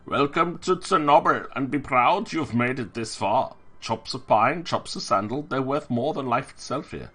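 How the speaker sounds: put-on loud German-accented cabby. Cabby welcoming passengers aboard in a German accent. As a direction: boom it out like a German cab driver. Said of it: "why I made him German".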